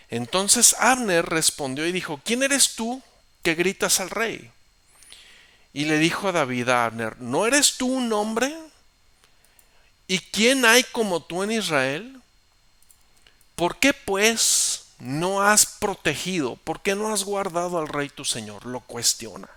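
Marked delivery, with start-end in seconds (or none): 2.2-4.5 high, loud challenge; shouting back. Acted. Abner shouting back across the valley at David, high and loud. 7.2-18.7 high, loud, slow rebuke; reproachful shout. Acted. David scolding Abner across the valley, loud and slow.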